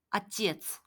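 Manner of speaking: 아찌에츠 slowly and clearly; slow demo. Shown as a demonstration. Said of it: "라고 합니다".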